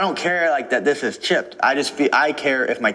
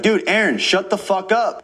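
imagined telling off; 7 semitones higher, slower than usual. Retold or imitated. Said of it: "I'd be like".

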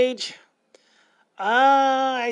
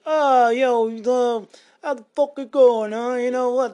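a lightly voiced crude loudmouth, a bit louder; 4 dB louder than usual. Joking he'd never greet the store like this, mild mock crude loudmouth. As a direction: ham up a vulgar guy at the store, only slightly. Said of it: "to talk like this".

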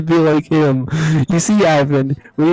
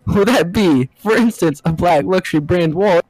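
put-on Australian accent. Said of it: "I keep doing Australian accent".

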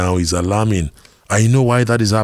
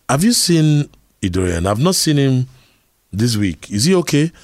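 concerned teacher; 5 semitones higher than usual. Retold or imitated. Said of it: "the lesson teacher said".

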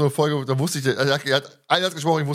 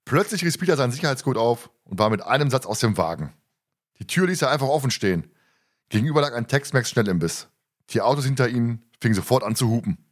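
measured audiobook-style narrator reading; story narration; 3 semitones lower than usual. A narrator's reading. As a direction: read the scene out like an audiobook. Reads a book scene aloud.

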